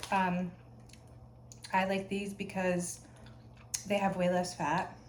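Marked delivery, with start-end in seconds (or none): 1.7-5.0 talking while chewing gum. Real, not acted. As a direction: chew gum as you speak. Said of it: "I'm chewing gum".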